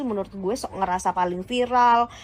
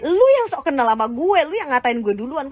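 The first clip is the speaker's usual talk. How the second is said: raised, louder indignant snap back; angry retort; 4 semitones higher, 4 dB louder than usual. Real, not acted. Ranting at the old man, angry retort. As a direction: fire it right back at him.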